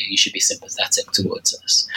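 losing the voice from a cold; voice giving out. Real, not acted. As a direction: voice fading to nothing. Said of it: "sorry, I'm losing my voice slightly".

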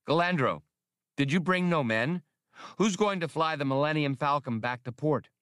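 lightly voiced prim little official; Spray's voice. Spray questions Galandro.

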